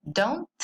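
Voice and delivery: don't said clearly with an open o, like "dount"; teacher models don't slowly for the class; careful pronunciation. Shown as a demonstration. Teacher showing students how to say don't, clearly. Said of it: "las pronunciaciones de estos dos auxiliares negativos".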